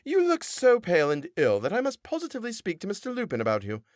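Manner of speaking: high, preachy twang of a pious wife; sing-song scolding in a sanctimonious twang; a prim churchgoing mother fussing over her daughter; conventicle twang. A narrator's reading. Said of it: "in her most conventicle twang".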